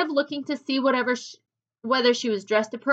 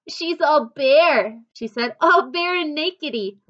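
put-on giggly little girl; 4 semitones higher, 5 dB louder, slower than usual. A narrator's reading. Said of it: "Florrie giggled".

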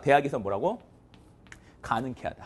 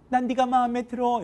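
acted confession; 7 semitones higher than usual. Girl approaching a boy on the street, intoned confession. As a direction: intone it on one raised note. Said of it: "이러잖아".

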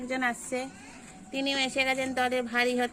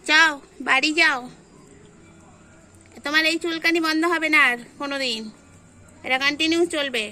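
shooing; 6 dB louder than usual. Real, not acted. Shooing the cats home loudly.

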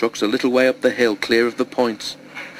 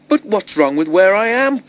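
high, louder plaintive wail; 9 semitones higher, 4 dB louder than usual. A narrator's reading. Toby wails at his driver, high and plaintive. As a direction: protest like a hurt child. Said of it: "wailed Toby".

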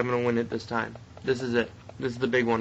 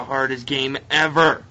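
building louder toward the last word; exasperated outburst; 4 dB louder than usual. Real, not acted. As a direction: let dismay swell into a loud finish. Dismayed by a remembered hard game.

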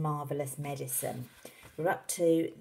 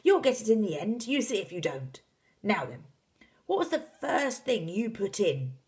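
loud, high, eager coaxing; Mister Cranky, excited; 6 semitones higher, 5 dB louder than usual. A narrator's reading. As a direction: spur your son on with gusto. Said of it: "cried Mister Cranky".

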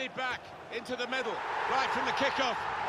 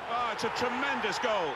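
excited goal call; 4 dB louder than usual. Acted. Commentator calls a goal.

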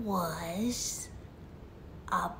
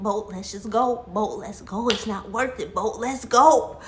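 insistent plea, building to loud; frantic urging; 5 dB louder than usual. Acted. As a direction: urge a friend to flee, louder by the end. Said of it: "going crazy".

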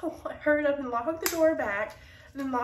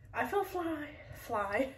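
playful singsong; 2 semitones higher, 6 dB quieter, slower than usual. Pretend. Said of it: "update you guys on how I feel".

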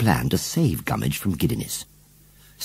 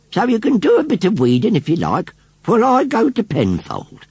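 put-on old lady voice; 12 semitones higher, 4 dB louder than usual. A narrator's reading.

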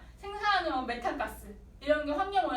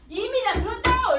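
higher, louder yell; cop shouting; 8 semitones higher, 9 dB louder than usual. Retold or imitated. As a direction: bark it at the suspect. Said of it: "이렇게 하겠지만".

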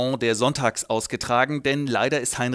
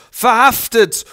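loud, higher bellowed arrest; shouted order; 8 semitones higher, 10 dB louder, slower than usual. Retold or imitated. Drunk Heinrich ordering an arrest, loud and high. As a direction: yell it like an officer. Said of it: "er so".

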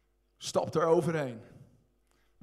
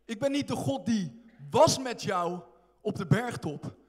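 preached quote of Jesus; 2 semitones higher, 4 dB louder than usual. Acted. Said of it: "hij zegt".

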